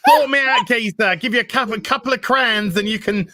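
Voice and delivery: high-pitched comic British streetwalker; Victorian prostitute. Shown as a demonstration. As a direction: haggle like an old-time London prostitute, high-voiced. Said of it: "how one of those prostitutes would have sounded".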